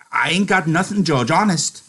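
high-pitched, simple-hearted protest; protesting innocence. Acted. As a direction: plead innocence, pitch well up. Lenny protests he hides nothing.

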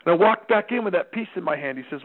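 ordinary talk, nothing marked

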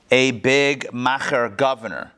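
macher with a throaty ch, said slowly; big macher, the ch rasped in the throat like Yiddish; Yiddish word macher. Shown as a demonstration. Teacher to class, saying the Yiddish word macher slowly. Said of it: "You know what a macher is?".

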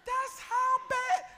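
high, loud, very slow punch; emphatic cry. Acted. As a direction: hammer it home, stretched out. Preacher punches the point.

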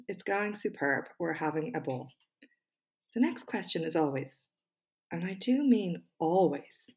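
measured TED-style delivery with pauses; TED Talk voice. Pretend. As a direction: read it like a prepared TED Talk, punching key words. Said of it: "in my best TED Talk voice".

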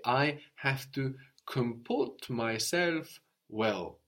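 I have to comport myself well said slowly and evenly; slow model sentence. Shown as a demonstration. Teacher modelling a sentence slowly for the student. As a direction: spell it out slowly for the learner. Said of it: "you will say".

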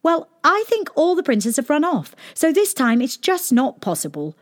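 high smug princess; pleased with herself, high; cartoon princess. A narrator's reading. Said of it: "looking very pleased with herself".

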